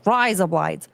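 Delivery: Aussie-sounding "rise up lights"; mock Australian accent. Shown as a demonstration. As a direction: show off a mock Australian twang. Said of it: "that's razor blades".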